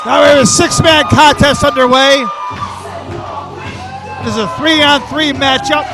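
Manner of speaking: excited wrestling commentator; play-by-play commentary. Acted. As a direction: call the match live.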